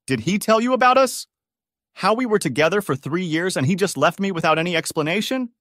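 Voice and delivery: loud, high bitter accusation; angry. A narrator's reading. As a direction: throw it in her face. Ex confronts the bride.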